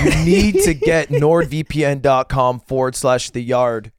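grave urgent ad read; dramatic ad read. Acted. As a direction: urge it like a last wish. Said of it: "this is Oscar worthy".

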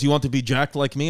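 put-on a low Russian-accent boast; mock Russian mover bragging. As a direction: brag like a jacked Russian mover. Mover bragging about his muscles.

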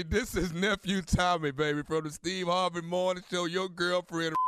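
repeat reveal. Acted. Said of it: "I say".

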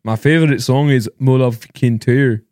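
slow, deliberate fake Scottish; unconvincing Scottish accent, drawn out. Shown as a demonstration. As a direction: repeat it slowly in amateur Scottish. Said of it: "What did you say?".

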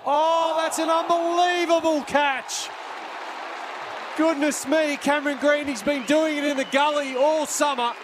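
excited shout over a great catch; cricket commentator. Real, not acted. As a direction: call the catch with rising excitement.

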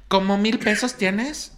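high, slow, entitled questioning; mocking woman's voice. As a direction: drag it out like a demanding customer. Imitating the rude woman. (imitación lenta y aguda de la señora)

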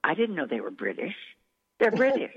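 retold amazement, pitch jumping up mid-quote; amazed caller. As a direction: imitate a friend shocked by the news. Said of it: "people who knew me would call me going".

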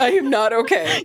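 laughing through a mock wail; laughing mock despair. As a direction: ham up the despair, giggling. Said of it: "You are okay".

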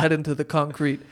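put-on low-pitched amateur Russian accent; loosely put-on Russian accent; rough Russian accent. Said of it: "I can't do a Russian accent".

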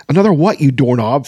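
high, loud incredulous question; exasperated. A narrator's reading. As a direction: burst out in exasperation.

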